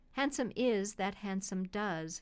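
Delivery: plain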